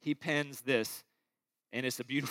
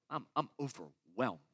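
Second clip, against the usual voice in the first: I'm overwhelmed said lower and softer, drained; weary and low; 7 semitones lower, 8 dB quieter than usual. Acted. Pastor voicing a weary listener, low and drained. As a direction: let it sink, spent and tired.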